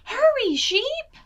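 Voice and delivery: high, loud call to hurry; urgent call. Acted. Betsy urging her sheep on, high and loud. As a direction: drive the flock on.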